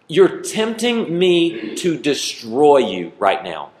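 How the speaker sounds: slow, deliberate warning; a half-joking parental threat; mock-threatening parent. Parent warning a kid who pushes too far, slow and deliberate. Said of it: "this is the word".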